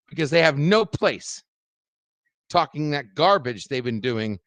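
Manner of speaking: emphatic, heated telling-off; angry warning. Real, not acted. Streamer warning a rival off his friend's business, angry. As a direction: lay down the law in separate, forceful bursts. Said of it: "I'm getting real fucking angry".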